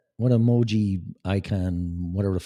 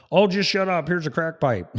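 higher, brushing-off parent voice, put on; mock dismissive parent; 7 semitones higher than usual. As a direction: play the parent waving the kid off with a sneer.

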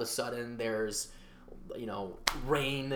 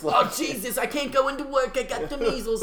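mocking a whiner; 9 semitones higher, 5 dB louder than usual.

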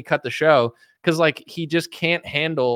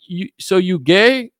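slow, loud, higher blunt put-on voice; imitating Jesse; 6 semitones higher, 5 dB louder, slower than usual. Jesse questioning a gay pastor, slow loud put-on voice. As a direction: ask it flatly, deadpan provocation. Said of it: "Jesse will be like".

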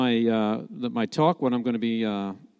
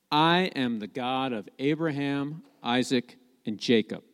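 soft, lower reading toward the end; quiet solemn quote; 3 semitones lower, 7 dB quieter than usual. Acted. God speaks to Moses, quoted softly. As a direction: quote it quietly and evenly, dropping on the names.

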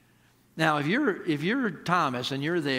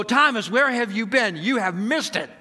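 excited disciples; 5 semitones higher, 5 dB louder than usual. Retold or imitated. Disciples excitedly greeting Thomas.

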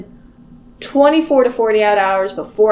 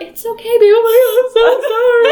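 mock tearful comfort; 11 semitones higher, 4 dB louder than usual. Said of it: "I'm an empath".

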